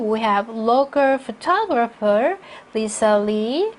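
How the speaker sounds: slow reading, stopping after "Lisa Lee"; phrased with pause. Shown as a demonstration. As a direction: separate the words, then rest after "Lee". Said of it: "전치사구 앞에서 당연히 쉬셔야 되고요". ("Lee" 뒤에서 쉬며 천천히)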